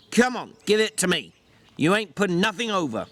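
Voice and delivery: put-on tired older friend, firm; gruff George voice. George demands the mouse.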